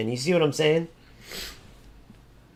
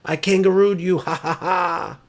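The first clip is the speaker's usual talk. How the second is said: higher, gloating with a fake laugh; mock Aussie taunt; 3 semitones higher than usual. Mocking an Aussie gamer who gloats, cackling taunt. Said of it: "for you, it'd be".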